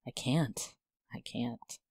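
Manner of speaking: breaking into tears; choked despairing whisper. Acted. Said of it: "she cried despairingly".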